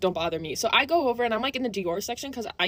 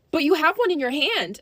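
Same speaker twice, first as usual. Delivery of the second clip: higher mock-child protest; demanding kid; 4 semitones higher than usual. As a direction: lightly imitate an insistent little girl. Mimics demanding little girl.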